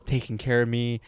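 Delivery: a hint of the hurt teacher; soft teacher thanks. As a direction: thank the class softly. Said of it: "she said".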